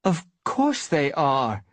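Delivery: slow, curt retort; snapped. A narrator's reading. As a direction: cut her off with impatience. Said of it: "snapped Bluestar".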